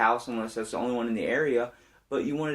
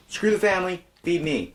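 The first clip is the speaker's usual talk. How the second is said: mock eager shout; 8 semitones higher, 4 dB louder than usual. Repeats joke to the housekeeper.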